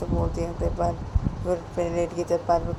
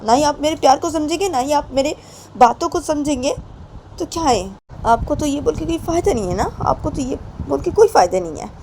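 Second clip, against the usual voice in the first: higher and louder, hurt exasperated plea; hurt, despairing complaint; 10 semitones higher, 8 dB louder than usual. Acted. Payal despairs that Poonam won't understand, higher and louder. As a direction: cry out that he'll never understand.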